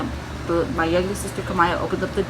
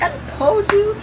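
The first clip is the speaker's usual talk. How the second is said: high, loud exasperated mom voice; exasperated retort; 14 semitones higher, 5 dB louder than usual. Retold or imitated. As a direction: imitate a mother snapping back in panic. Mom's exasperated retort in emergency.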